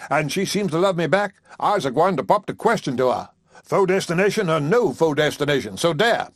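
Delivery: a touch of indignant bluster, lightly voiced; mild mock defiance; angry preacher. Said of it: "darken angrily as he replied".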